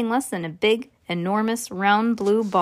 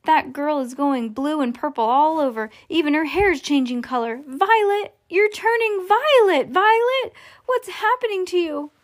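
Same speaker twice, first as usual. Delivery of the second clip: high wail climbing higher and higher; yelling in panic; 6 semitones higher than usual. A narrator's reading. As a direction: build to high-pitched alarm. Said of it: "yelled Missus Beauregard".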